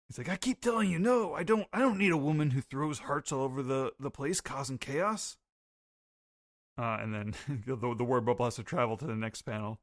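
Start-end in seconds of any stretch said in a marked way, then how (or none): 0.3-5.4 higher, exasperated protest; voicing Roger. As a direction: insist he doesn't need her. Roger rejecting Gloriosa.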